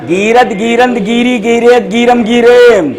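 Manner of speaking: forms chained with no pause, last one drawn out; in one breath. Shown as a demonstration. Teacher demonstrating for the class, conjugation in one breath. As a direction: recite the whole list on a single breath. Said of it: "एक सांस में कोई बोले".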